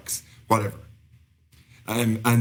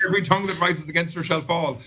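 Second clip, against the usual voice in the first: raised, declaiming bible verse; scripture quote; 6 semitones higher than usual. Acted. Correcting the co-host's misquote, lightly preacherly recital. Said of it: "That was much better".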